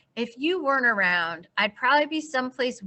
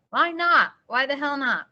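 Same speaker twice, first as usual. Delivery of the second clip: raised, higher and louder; insistent demand; 6 semitones higher, 5 dB louder than usual. Acted. Holden pushing Sally to run away with him. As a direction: press her hard, pitch climbing. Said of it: "Stop screaming at me".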